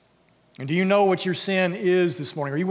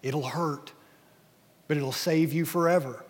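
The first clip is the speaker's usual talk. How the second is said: calm angel. Acted. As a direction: soothe him gently into letting go. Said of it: "the angel's just calmly saying".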